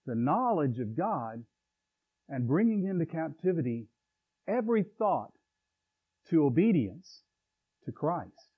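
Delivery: slow, measured reading of the verse; deliberate Bible verse recital; scripture recitation. Shown as a demonstration. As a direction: lay out each phrase of scripture slowly. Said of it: "verses four and five that says".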